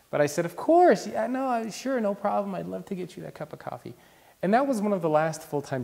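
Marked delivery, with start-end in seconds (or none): 0.4-3.9 eager yes-man. Retold or imitated. Eager reply to the boss.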